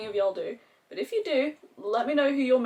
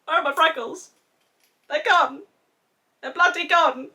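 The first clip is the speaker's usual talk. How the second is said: mock dismay; 7 semitones higher, 7 dB louder than usual. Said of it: "I look at my face and I'm like".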